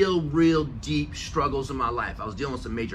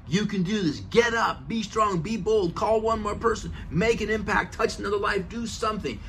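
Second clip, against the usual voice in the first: pep talk; 4 semitones higher than usual. Retold or imitated. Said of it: "pounding on my steering wheel".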